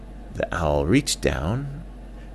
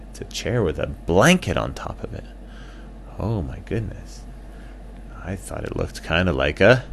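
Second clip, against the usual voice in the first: lightly voiced bat. Bat character voice.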